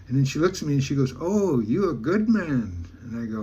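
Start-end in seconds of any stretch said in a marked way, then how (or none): 1.2-2.9 slow, swooping, drawn-out praise; impressed approval. Retold or imitated. Woman approving of the teller's refusal, retold impressed praise. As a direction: imitate her approving, stretching each word. Voicing her approval of him.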